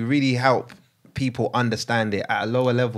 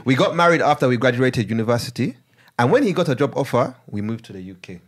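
put-on Ugandan accent. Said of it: "I'm gonna read it in Ugandan accent".

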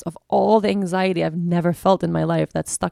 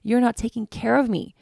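voicing her body; 5 semitones higher than usual. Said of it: "my body alerting me like".

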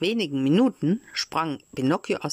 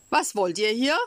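higher, startled cry, mildly done; frightened call; 4 semitones higher, 3 dB louder than usual. Acted. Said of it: "rief Pinocchio und setzte sich voll Schrecken". (erschrocken gerufen, etwas höher)

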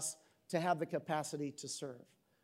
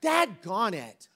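mock regret; 6 dB louder, slower than usual. Pastor mocking his fake regret to the congregation, hammed-up. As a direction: overplay the fake sorrow, then drag it out. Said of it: "So I'm like".

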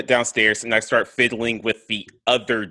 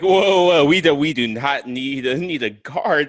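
a higher pleading voice; placating character; 5 semitones higher than usual. Acted. Character to the barmaid, high and placating. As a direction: talk her down fast. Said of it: "I was like".

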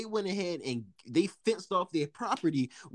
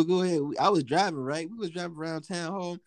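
ordinary talk

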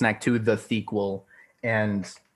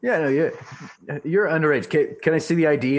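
mock cop voice; 4 semitones higher, faster than usual. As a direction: play a pushy cop checking ID. Joining the mock cop scene.

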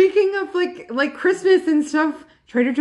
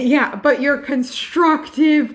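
laughing; 4 dB louder, much slower than usual. Real, not acted. Laughing while talking.

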